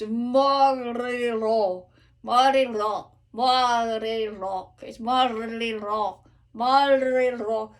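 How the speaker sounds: morirò with the first R not rolled, sung slowly; unrolled R. Shown as a demonstration. Coach drilling the unrolled R. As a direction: keep that R light in morirò. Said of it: "it's not rolled".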